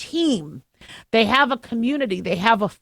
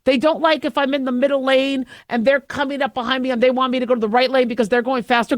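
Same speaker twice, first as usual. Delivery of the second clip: normal talking voice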